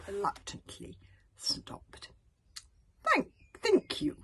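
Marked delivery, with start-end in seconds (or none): 3.1-4.2 relieved thanks. Acted. Kidnapper relieved after dragon attack.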